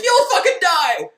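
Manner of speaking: high, loud threatening scream; furious scream. Retold or imitated. Heroine threatening Todd, high furious scream. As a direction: spit it as a threat. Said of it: "now she's like".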